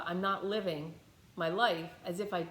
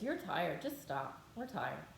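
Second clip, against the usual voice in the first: low, soft, drowsy coaxing; sleepy ego voice; 6 semitones lower, 7 dB quieter, slower than usual. Acted. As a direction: lull yourself to stop like a tired inner voice. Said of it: "my ego does this really funny thing where it says".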